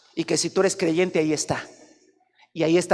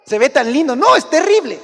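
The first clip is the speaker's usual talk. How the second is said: much higher, louder protest; exasperated parent; 8 semitones higher, 9 dB louder than usual. Pretend. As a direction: cry out that the son is awful. Dialogue pastor and parent.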